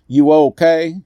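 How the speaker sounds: Sean calls loud and high across the dark; calling out. Acted. Friend calling out after the dog fight, loud and worried. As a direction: shout it across to a hurt friend. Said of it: "Sean called out".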